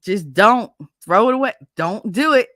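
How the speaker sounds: 1 warning friend. Retold or imitated. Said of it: "I hear Spanky going".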